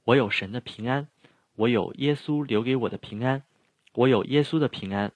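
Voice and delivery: a firm, emphatic declaration of peace; loud and firm. Shown as a demonstration. Teacher shows the class a loud, firm declaration. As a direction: proclaim it boldly, with conviction. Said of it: "如果我让你很大声、坚定地说".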